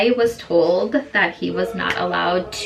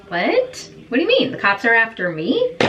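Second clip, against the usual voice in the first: retold disbelief; 2 semitones higher, faster than usual. Retold Brittany learning cops chase her.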